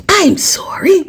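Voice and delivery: breathy unvoiced high whisper; whispered fake apology; mock whisper. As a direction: play it hushed and sheepish.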